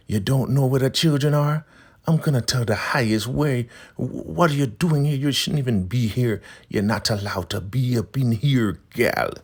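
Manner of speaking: high, loud, scolding church elder; Elder Mother Marva. Retold or imitated. Recapper voicing Marva confronting Ruth, high and loud. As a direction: bark at her like an outraged elder matron. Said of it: "Elder Mother Marva walks up".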